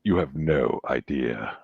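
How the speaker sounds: low and knowing, dragged out; Scar. Retold or imitated. Scar answering the kid, low and slow. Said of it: "He goes".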